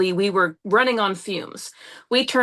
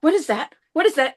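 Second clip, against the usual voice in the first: higher-pitched, alarmed question; retold freak-out; 4 semitones higher than usual. Driver hearing a ding in the car, retold alarm. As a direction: re-enact rising panic at a strange noise. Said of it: "'Cause I'm freaking out".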